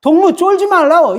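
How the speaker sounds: lightly imitated North Korean speech; North Korean phrasing. Shown as a demonstration. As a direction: put on a North Korean comrade's urging. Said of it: "이게 북한 말이에요".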